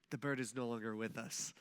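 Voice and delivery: soft, low, careful delivery; gentle tactful version. Retold or imitated. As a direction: break the news softly and delicately. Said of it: "what I should have said is".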